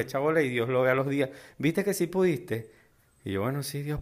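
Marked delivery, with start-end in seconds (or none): 1.6-2.7 higher, slow, smug divine approval; mock God voice. Vlogger voicing God, teasing his favourite warrior, higher and slower. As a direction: play God gloating that you managed it.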